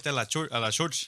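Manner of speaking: imitated Spanish accent; uncle's Spanish accent. Showing friends uncle's way with church, Spanish accent. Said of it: "he says it with his accent".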